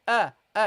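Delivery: short, crisp "Ah" from a glottal start; "Ah, ah" as separate glottal onsets; hamza sound. Shown as a demonstration. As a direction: sound out the opening "Ah" by itself. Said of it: "how do you pronounce it".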